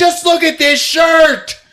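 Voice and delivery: high, loud, slow wail; hammed-up whining villain; mock anguished yell. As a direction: cry it out in outrage, drawn out. Stabbed villain screams.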